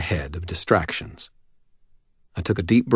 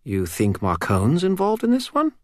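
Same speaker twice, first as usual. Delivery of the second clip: put-on stern older man voice; 10 semitones higher than usual. Wizard voiced in audiobook.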